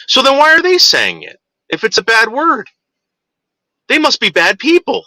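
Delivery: lightly voiced kid reasoning it out; questioning kid. Kid challenging parents about a bad word, puzzled. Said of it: "And the kid goes".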